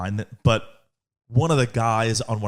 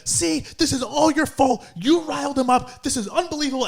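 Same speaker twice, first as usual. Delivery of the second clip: put-on scolding girl; 12 semitones higher than usual. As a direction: blame him like a fed-up teammate. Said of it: "one of the girls turned to one of the guys".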